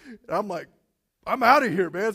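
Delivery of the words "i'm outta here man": panicked getaway. Retold or imitated. Fleeing the janitor.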